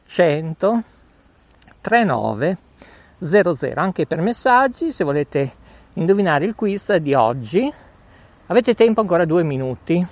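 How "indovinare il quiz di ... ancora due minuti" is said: panting between words; short of breath while talking. Real, not acted. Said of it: "Scusate il fiatone".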